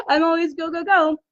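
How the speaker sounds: teary, close to crying; tearing up. Real, not acted. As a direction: voice catching with tears. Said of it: "here I am tearing up".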